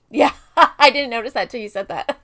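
laughing loudly through the words; hysterical laugh. Real, not acted. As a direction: burst out laughing at the joke. Laughing at Barbie and Ken.

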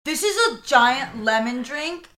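high, loud, slowed influencer parody; hammed-up show-off for a video story; imitating Kaylee. Teasing co-host's Instagram story, high mock-excited imitation. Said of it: "Kaylee was, like, on her story".

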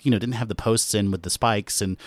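lightly mocked armor historian; a hint of pedantic internet nerd. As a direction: mimic a nitpicker, tailing into dismissiveness. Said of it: "internet armor historian nerd voice".

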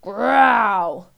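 loud, drawn-out word like a growl; baby's growl. A narrator's reading. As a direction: stretch GROWL out loudly as an animal noise. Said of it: "Then she started to growl".

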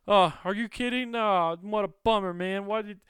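high, falsely casual innocent voice; playing it cool. Prisoner faking calm to guards, high and breezy. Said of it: "trying to play it real cool".

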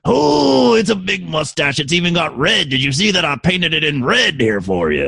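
a hint of the cartoon gunslinger; Yosemite Sam impression. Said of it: "I'm gonna do an impersonation of a famous person with a mustache".

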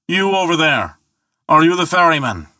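high, carrying hail; bawling. Acted. Thor calling to the ferryman on the far bank, bawling. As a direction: bawl it across a wide channel. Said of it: "bawled Thor".

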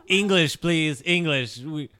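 loud ugly-tourist shouting; yelling. Acted. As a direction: bark demands for English. Yelling at gnome-speakers in character.

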